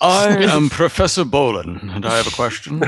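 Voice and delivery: lightly put-on professor voice; self-important introduction, mildly hammed; Professor Bolin. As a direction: announce yourself as a mock professor. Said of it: "Oh, you are a professor".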